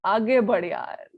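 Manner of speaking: mildly impatient, fast and low-key urging; bored, impatient. Acted. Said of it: "The other person will get bored".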